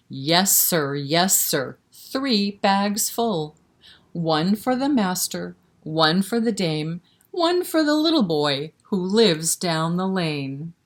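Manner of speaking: put-on sing-song rhyme read to little kids; lilting, rhythmic recitation for toddlers; nursery rhyme recital.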